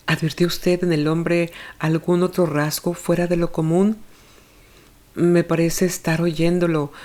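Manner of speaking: a hint of a worried mother answering questions; anxious mother. Olga blames herself.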